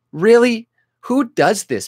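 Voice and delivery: high, loud disbelief; can't believe anyone buys it; incredulous. Real, not acted. Ranting at a hoax story.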